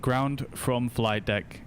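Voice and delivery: slow, even robotic monotone. Shown as a demonstration. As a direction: speak flat like a machine. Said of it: "a proper monotone voice for them to recognize you".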